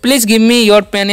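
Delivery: very slow English, each word apart; slow example sentence. Shown as a demonstration. Teacher modelling a polite request, very slowly. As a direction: read "Please give me your pen" very slowly. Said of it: "इस तरह से बोल सकते हैं".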